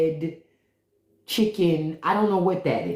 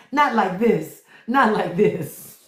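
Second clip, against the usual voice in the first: dramatic movie line; 3 semitones higher, 4 dB louder, slower than usual. Retold or imitated. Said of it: "What do they say in The Matrix?".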